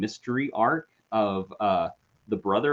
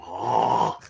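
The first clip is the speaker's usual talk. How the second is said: mock puppy groan, drawn out; imitated puppy noise; 6 semitones lower than usual. Describing the odd puppy in the corner, imitated groan. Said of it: "kind of going".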